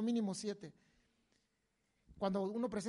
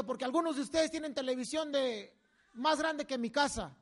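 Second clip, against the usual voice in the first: laughing. Real, not acted. Laughing while retelling.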